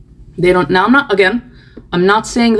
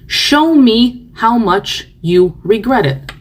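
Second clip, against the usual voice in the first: slow, emphatic repeat; 3 semitones higher, slower than usual. Real, not acted. Repeating the demand slowly to the remorseful. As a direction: show drawn out slowly, falling at the end.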